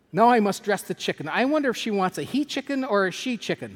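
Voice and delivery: a hint of eager puzzling; lightly voiced housekeeper. Housekeeper wonders how to dress the chicken, lightly voiced musing.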